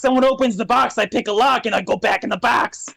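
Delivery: complaining imp. Acted. Imp complains about his existence.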